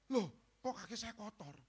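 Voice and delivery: high, startled exclamation; surprised. Retold or imitated. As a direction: react as if shocked by your feet. Surprised at dirty feet.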